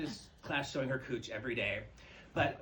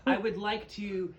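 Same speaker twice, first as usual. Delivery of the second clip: slow, drawn-out come-on, pitched higher; mock seductive proposition; 6 semitones higher, 9 dB louder, much slower than usual. She propositions the purge monster, slow and mock-flirty. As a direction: stretch the pickup line out lazily. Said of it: "I was like".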